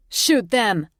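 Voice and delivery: loud, high, furious command to fire; a raging order to open fire. Acted. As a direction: bark it at the soldiers. Enraged agent orders soldiers shoot.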